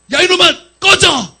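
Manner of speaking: loud, high shout, each word drawn out; furious command banishing a demon; angry proclamation. Retold or imitated. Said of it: "제가 그렇게 선포했어요". (화가 나서 크고 길게 내지르는 호통)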